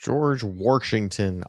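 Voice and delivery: slow "Washington" with an R slipped in before the SH; Warshington pronunciation. Shown as a demonstration. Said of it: "I almost actually misspelled it that way".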